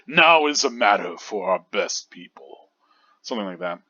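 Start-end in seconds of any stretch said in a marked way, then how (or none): 0.1-2.7 put-on commanding, regal old commander; deep regal voice. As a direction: speak it like the head captain. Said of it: "commanding and regal voice".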